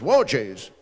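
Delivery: low, imitated dad exclamation; dad's low-pitched startled reaction; father's voice. Father kicking out the burning bushes, low startled voice. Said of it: "and then my father's voice going".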